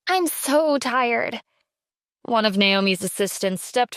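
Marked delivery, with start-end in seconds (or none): 0.1-1.4 slow, weary and drained; tired sigh. Acted. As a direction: sigh the words out exhausted. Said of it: "let out a long sigh".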